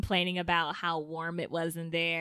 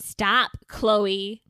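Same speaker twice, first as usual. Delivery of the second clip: loud; 6 dB louder than usual. Real, not acted. Scolding sister.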